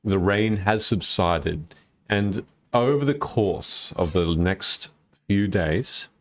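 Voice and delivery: slow, measured scene setting; game master narration. Acted. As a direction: set the scene slowly for the players. Game master describing the travel.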